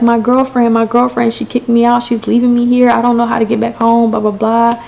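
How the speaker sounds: high, running-on mock explanation; retold frantic explanation. Stranded girl explaining to trucker, retold panic.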